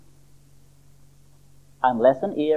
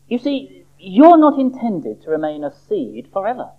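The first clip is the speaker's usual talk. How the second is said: confidential, fatherly; 6 semitones higher than usual. Acted. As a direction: let the patient in on a kindly secret. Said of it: "in a confidential, fatherly manner".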